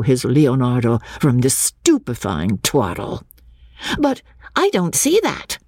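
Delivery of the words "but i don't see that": exclaimed. Acted. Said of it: "exclaimed Minnie Beebe".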